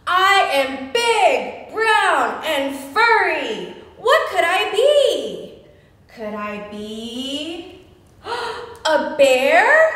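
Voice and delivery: put-on drawn-out guessing-game voice for kids; mock bear riddle. Storytime teacher playing a bear for children, slow and playful. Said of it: "I think I'm a bear".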